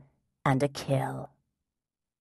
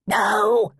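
loud, higher panicked cry; frantic cry; 5 semitones higher, 5 dB louder than usual. Acted. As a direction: cry out in alarm. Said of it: "cried the guide".

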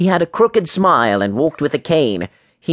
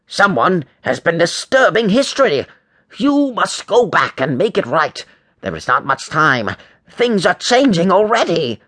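higher-pitched, put-on older teacher voice; agitated history teacher, pitched up; urgent teacher Cragglenot, alarmed; 5 semitones higher than usual. A narrator's reading. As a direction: warn the boys urgently.

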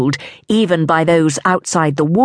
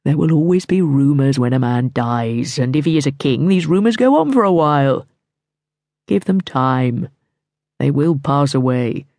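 lower, calm and steady; reassuring Mortimer; 4 semitones lower than usual. A narrator's reading. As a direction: settle her fears.

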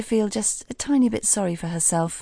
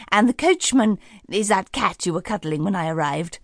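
fairy godmother. Acted. Fairy godmother remembering, chatty.

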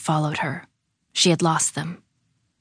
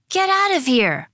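high-pitched incredulous exclamation; disbelieving cry; 9 semitones higher, 3 dB louder than usual. A narrator's reading. Lily scoffs at Claire's seeds, crying out. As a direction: cry out as a doubting child. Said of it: "Lily cried".

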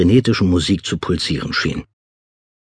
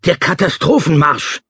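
high, raised urgent call; alarmed call, pitched up; called over the shoulder; 8 semitones higher than usual. Acted. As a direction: call back to someone while running off. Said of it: "rief er mir über die Schulter zu".

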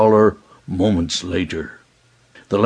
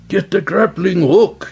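commanding order; 9 semitones higher than usual. Acted. Pirate leader giving order.

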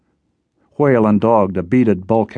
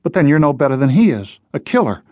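higher-pitched, heated reproach; indignant accusation; 5 semitones higher than usual. Acted. Jess accuses Whale.

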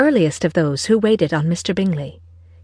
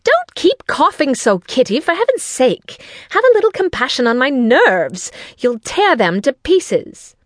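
high, exasperated scolding; scolding mother; 6 semitones higher than usual. A narrator's reading. Mother scolds her coughing daughter, high and exasperated. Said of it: "began scolding one of her daughters".

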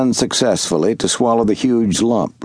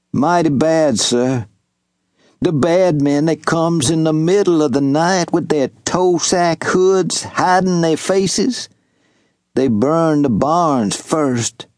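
put-on old servant, grieving; 4 semitones higher than usual. Wash telling Jubal how the raiders killed his father, lightly voiced and sorrowful. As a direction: tell the horror gently, in a lightly voiced old man's tone.

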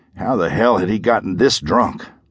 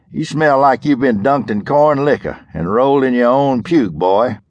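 a hint of a sneering lawman, higher; mocking sheriff; 5 semitones higher than usual. Sheriff taunting the hungover Parker, lightly mocking. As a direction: needle the boy with a lazy sneer. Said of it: "the sheriff said".

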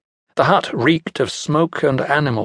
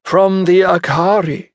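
Centaur scheming; 7 semitones higher, 4 dB louder than usual. Acted. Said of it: "Centaur said".

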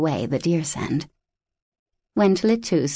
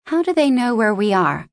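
an insistent, pushy question; demanding; 5 semitones higher, 4 dB louder than usual. Acted. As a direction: demand an answer, pitched up. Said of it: "I demanded".

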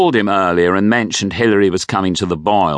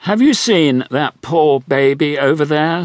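high, louder grand dowager; a grand old dame, much higher; wealthy widow; 9 semitones higher, 4 dB louder than usual. A narrator's reading. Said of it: "said the dowager".

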